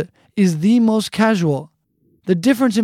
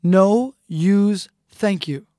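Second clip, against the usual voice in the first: slow literal gloss; much slower than usual. Shown as a demonstration. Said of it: "Literally, this means".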